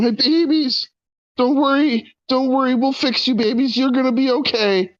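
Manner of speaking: high, hammed-up tearful comforting; mock weeping. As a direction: sob over the tentacles like her children, in a high voice. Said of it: "Julie just starts kind of weeping".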